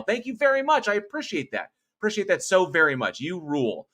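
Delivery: high, gushing thank-you; excited thanks to a donor; effusive thanks. Real, not acted.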